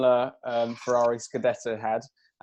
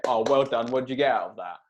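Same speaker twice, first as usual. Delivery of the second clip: sarcastic; 2 semitones lower than usual. Retold or imitated. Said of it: "me sarcastically clapping".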